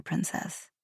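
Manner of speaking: princess dropped to a near whisper; soft murmur. Acted. Prince bidding her goodbye, softly murmured. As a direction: let princess fall softly, intimate.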